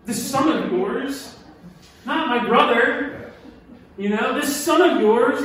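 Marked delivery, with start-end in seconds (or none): 0.0-3.3 slow, louder, contemptuous; mad, won't say name. Acted. Angry son refusing to name his brother, slow contempt. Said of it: "you know when someone's really mad". 4.4-5.4 slow, louder, contemptuous; mad, won't say name. Acted. Angry son refusing to name his brother, slow contempt. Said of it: "when someone's really mad".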